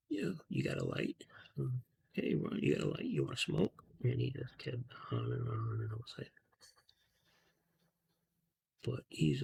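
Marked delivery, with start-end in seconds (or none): 0.1-3.8 a light, teasing imitation of Joe Rogan, pitched higher, half whispered. Joe Rogan teasing his stoned friend, lightly imitated, higher. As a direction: lightly mimic a friend ribbing you to smoke again. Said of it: "and this is Rogan, saying".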